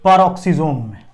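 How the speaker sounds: answers his own question slowly. Shown as a demonstration. Teacher slowly answering his own quiz question. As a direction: spells out the answer slowly for the class. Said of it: "किसमें?".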